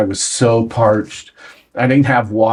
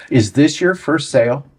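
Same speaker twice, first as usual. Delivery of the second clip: higher-pitched imitation of a client asking; imitating the client's question; 4 semitones higher than usual. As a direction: ask it higher, as the client did. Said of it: "That's how she said that to me".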